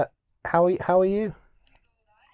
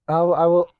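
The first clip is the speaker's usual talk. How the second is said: whisper; 4 semitones higher, 6 dB louder than usual. Real, not acted. Aside during live phone call.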